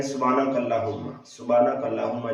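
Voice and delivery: fast, dropping the ha sound in सुबहानकल्लाहुम्मा; hurried recitation skipping the breathy ha; rushed wrong version. Shown as a demonstration. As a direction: say सुबहानकल्लाहुम्मा quickly, swallowing the ह. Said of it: "बाज़ इस तरह पढ़ते हैं".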